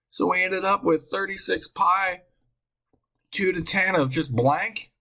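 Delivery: high-pitched and carried away; excited. Real, not acted. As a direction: ride the excitement, pitch held up. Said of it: "I got all excited".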